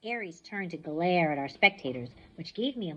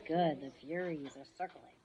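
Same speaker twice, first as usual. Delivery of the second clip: ordinary delivery, nothing marked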